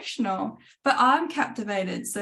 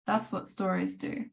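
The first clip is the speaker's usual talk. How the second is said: quieter repeat, letting it sink in; soft echo; 6 dB quieter than usual. Shown as a demonstration. A teacher quietly echoing her point to the students, softly. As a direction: say it again to yourself, gently. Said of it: "soft echo of the same line".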